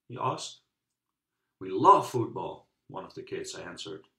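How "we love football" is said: put-on loud eager kid's reply; excited shout. Kid answering the coach about football, loud and eager. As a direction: shout it out with joy.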